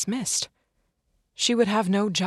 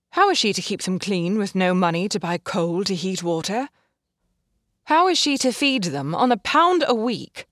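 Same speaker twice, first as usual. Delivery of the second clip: louder, rising indignation; doctor pleading for poor mothers; impassioned plea; 6 dB louder than usual. Acted. Heated argument with employer.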